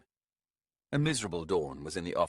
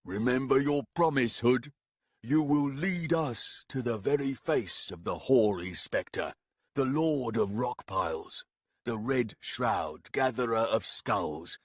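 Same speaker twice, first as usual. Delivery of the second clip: raised voice; 3 semitones higher than usual. Acted. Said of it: "Baragast raised his voice".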